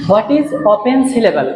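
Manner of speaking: slow, careful read; teacher dictating the question slowly; slow dictation. Shown as a demonstration. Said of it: "আমি লিখলাম".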